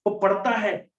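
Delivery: pointed jeer at a studier; acted insult. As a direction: say it like an accusation. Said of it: "insult feeling आता है ना".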